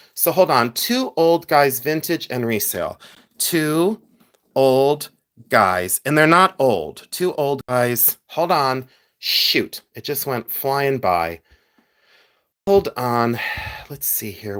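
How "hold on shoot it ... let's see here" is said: frustrated-sounding voice. Writing down a shop name for everyone watching the video, sounding frustrated. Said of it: "Why do I sound so frustrated?".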